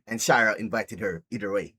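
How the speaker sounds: usual speaking voice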